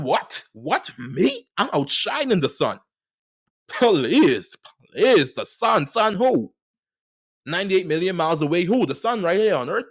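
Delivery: incredulous mock brag, punching each question; mock boastful. Speaker hyping herself up, mock boastful disbelief. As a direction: playfully scoff at the idea that the sun compares. Boasting she outshines the sun.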